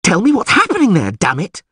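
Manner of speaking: high, loud, urgent demand; impatient demand. A narrator's reading. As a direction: call out, desperate for news. Dandelion demands news over the downpour.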